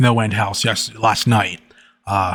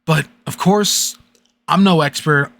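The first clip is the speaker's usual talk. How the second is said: serious voice. A narrator's reading. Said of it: "read another story in a serious voice".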